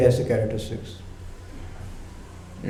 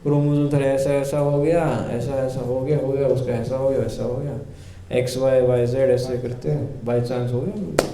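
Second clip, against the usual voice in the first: mock skeptic excuse; 2 semitones lower, 4 dB quieter, faster than usual. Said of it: "कोई बोलेगा ना".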